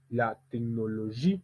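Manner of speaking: "La technologie" with a held "gie"; final-syllable stress. Shown as a demonstration. Teacher drilling an isolated word, final stress on "technologie". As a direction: lean on the end of "technologie". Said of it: "Entraînement avec un mot isolé".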